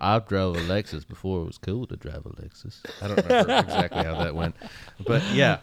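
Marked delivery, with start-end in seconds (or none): 0.0-2.8 McConaughey impression. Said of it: "Matthew McConaughey".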